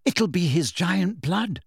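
shakily. Acted. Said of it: "said Hermione shakily".

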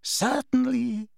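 lightly sneering Snape. A narrator's reading. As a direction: curl the lip on it. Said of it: "his lip curling".

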